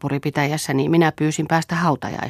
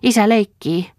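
put-on excited child; 7 semitones higher, 5 dB louder than usual. A narrator's reading. Child delighted at father's play.

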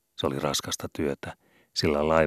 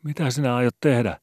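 higher, loud alarmed cry; panicked shout; 8 semitones higher, 6 dB louder than usual. A narrator's reading. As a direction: call out in alarm. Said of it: "huusi hätääntynyt lukkari".

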